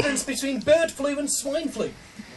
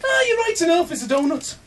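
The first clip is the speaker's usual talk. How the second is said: put-on higher-starting, lightly done Scottish accent; 4 semitones higher than usual. Scot answering his friend at the window, lightly Scottish. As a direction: agree like an obliging Scot. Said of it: "involves a Scottish accent".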